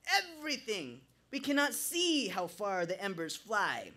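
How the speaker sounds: very high, loud Jamaican shouts; frantic Jamaican shouting. A narrator's reading. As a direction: rant wildly in Jamaican accent. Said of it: "rambling even louder".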